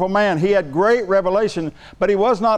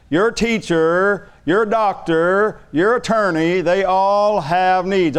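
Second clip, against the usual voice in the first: preaching; much slower than usual. Acted. Preaching list, slow emphasis.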